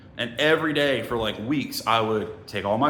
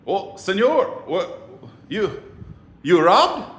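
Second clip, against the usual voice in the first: put-on high, halting Hispanic-accented question; put-on Hispanic accent, startled and broken up; imitated Hispanic accent; 7 semitones higher, 4 dB louder, slower than usual. Hispanic workers seeing him naked, startled accented question. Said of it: "These three Hispanic dudes are looking at me like".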